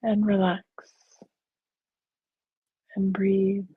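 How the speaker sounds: calm, even meditation guide; guided meditation. Real, not acted. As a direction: lead them gently, with long pauses. Leads a guided visualization.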